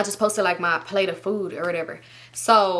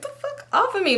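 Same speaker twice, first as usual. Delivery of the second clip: mock annoyance; 14 semitones higher than usual. Fending off girl grabbing phone.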